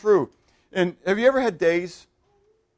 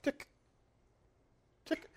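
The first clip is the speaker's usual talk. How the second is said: slowed ticking; 16 dB quieter than usual. Shown as a demonstration. Preacher showing time stretched, TICK far apart. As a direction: TICK with a long silence before each. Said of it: "it's going".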